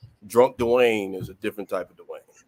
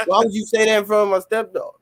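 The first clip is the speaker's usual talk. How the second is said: laughing protest; 9 semitones higher, 6 dB louder, much faster than usual. Real, not acted. Protesting mom's remark, laughing.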